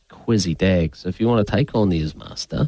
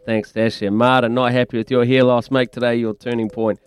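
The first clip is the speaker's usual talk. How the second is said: radio ad read; 2 semitones higher than usual. Acted.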